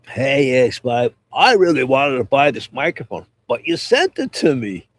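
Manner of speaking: flat monotone imitation of a friend; deadpan, no ups and downs. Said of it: "that one monotone voice".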